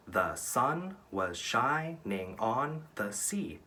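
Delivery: "The sun was shining on the sea" very slow, each syllable separated; counting syllables. Shown as a demonstration. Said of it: "That's eight syllables".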